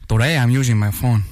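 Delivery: Spanish accent. Shown as a demonstration. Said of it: "do me a English sentence in a Spanish accent".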